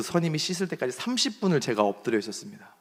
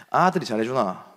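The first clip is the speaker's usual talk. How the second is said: Gyeongsang dialect question. Retold or imitated. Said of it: "잘해주니?"라고 물어보는 것 같은데".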